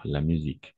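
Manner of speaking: musique with the S said as Z; musique, a buzzing Z in the middle. Shown as a demonstration. Teacher shows the class musique with a Z sound. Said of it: "on va prononcer comme un Z".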